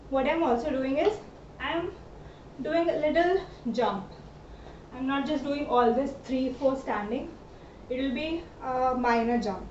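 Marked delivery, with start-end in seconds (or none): 1.6-9.7 talking mid-dance; words through dance steps; dancing while talking. Real, not acted. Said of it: "It's difficult to talk and dance".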